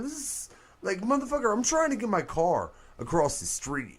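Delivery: high, put-on voice of a fed-up local; annoyed New Yorker. Friend mocks a New Yorker blocked by the bomb, high fed-up voice. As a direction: play a New Yorker irritated by the fuss.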